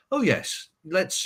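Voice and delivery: high-pitched, lightly acted eager lender; mock obliging banker. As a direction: lightly mimic a banker saying yes. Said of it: "banks are not gonna be turning to you and saying".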